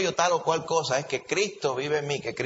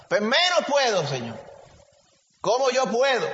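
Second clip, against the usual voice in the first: despairing plea; 7 semitones higher, 3 dB louder than usual. Acted. Believer despairs to the Lord.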